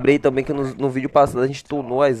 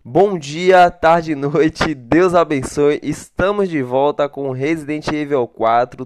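more measured, composed greeting; slower, apologetic redo; 3 semitones higher, 5 dB louder, slower than usual. Shown as a demonstration. Streamer restarting the greeting for viewers, slower and calmer. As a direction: redo the opener carefully, easing off the hype. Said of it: "fala devagar, por favor, desculpa".

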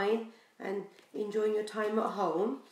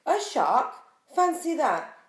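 hammed-up, louder and higher surprise; mock surprise; 5 semitones higher, 6 dB louder than usual. Reader acts surprised at the picture for children, loud and high. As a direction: gasp it out for the kids. Reacting to the reveal.

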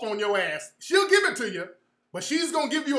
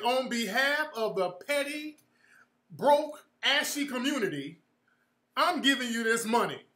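mock formal donation speech. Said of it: "I said".

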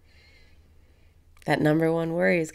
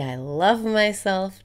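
self-loving affirmation; 3 semitones higher, 7 dB louder than usual. Shown as a demonstration. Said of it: "Just say".

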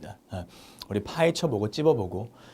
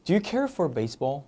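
slow model sentence; much slower than usual. Shown as a demonstration. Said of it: "care for를 쓴다는 거죠".

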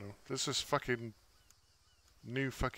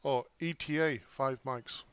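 radio callout; 2 semitones higher than usual. Shown as a demonstration. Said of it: "if I give you the transcript".

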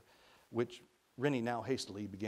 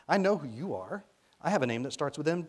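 put-on higher, louder child's chatter; delighted little boy; 4 semitones higher, 7 dB louder than usual. A narrator's reading. Boy showing Rennie he knows him, delighted. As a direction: bubble over with delight, voice lifted. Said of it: "with a delighted laugh".

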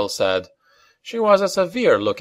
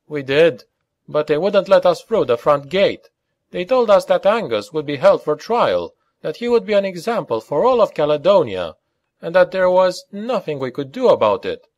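high-pitched, frustrated account; aggrieved Scots character; 9 semitones higher than usual. A narrator's reading. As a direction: recount it in a raised Scots character voice.

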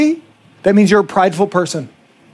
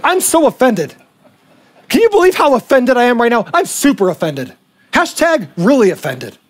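higher, showy indignation; mock offended; 3 semitones higher than usual. Mimicking a culture that treats offense as virtue, mock offended. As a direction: make a show of being offended. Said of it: "We view being offended as".

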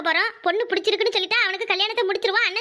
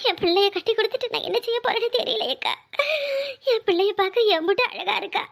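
crying mother, sobs between phrases; weepy, proud lament; tearful. Acted. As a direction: choke up over your daughter leaving. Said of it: "எம்மா, அழாதம்மா".

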